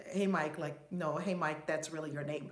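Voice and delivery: low, understated deadpan talk-show host; low-key, casual comic impression; Ellen DeGeneres impression. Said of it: "in my Ellen DeGeneres voice".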